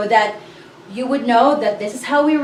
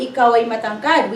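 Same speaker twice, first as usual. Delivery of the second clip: Ikaw ay matangkad run off quickly as the wrong example; wrong version, fast; faster than usual. Shown as a demonstration. Teacher quickly names the order learners should not use. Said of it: "we don't say".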